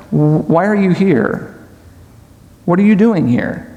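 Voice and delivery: gentle, unhurried loving question; very pleasant. Acted. God asking Satan from a heart of love, pleasant. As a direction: ask kindly, with no accusation. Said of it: "from his heart of love very pleasant".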